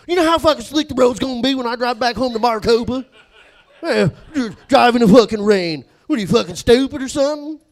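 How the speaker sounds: high, very loud redneck outrage; Jacob's redneck rant. Retold or imitated. Coworker scolding about driving in rain, loud redneck rant. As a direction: rant in a thick redneck accent. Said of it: "He goes".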